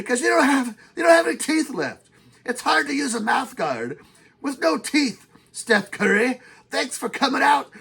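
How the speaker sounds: a mock-angry rant at a cocky young star; angry old man rant. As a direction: needle Steph Curry like an old-school enforcer. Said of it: "angry old man kind of rant there".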